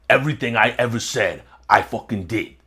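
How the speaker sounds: imitating an intentional, declarative delivery; a rapper. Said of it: "very, very, uh, declarative almost".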